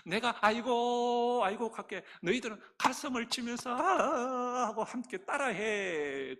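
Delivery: put-on slow, half-crying child's invitation to play funeral; child leading friends in a pretend funeral; playful mock wailing. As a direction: whimper along like a kid copying mourners. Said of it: "흉내 내면서 한번 놀아보자".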